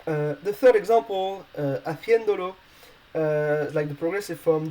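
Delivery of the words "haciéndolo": "haciéndolo" with stress on the E, ha-CIÉN-do-lo; Spanish word demo. Shown as a demonstration. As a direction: say "haciéndolo" in Spanish, leaning on the accented É. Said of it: "the letter, uh, that is stressed is".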